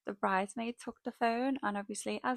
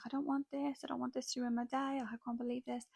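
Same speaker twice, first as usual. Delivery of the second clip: higher, mildly tearful imitation of a bride; a touch of mock crying, pitched up; retold crying bride; 3 semitones higher than usual. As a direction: imitate an upset bride in a raised, softening voice. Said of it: "the bride started crying again".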